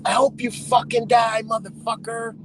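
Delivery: high, imitated outburst of an enraged driver; mock rage. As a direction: spit it out like a furious heckler. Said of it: "they get rage".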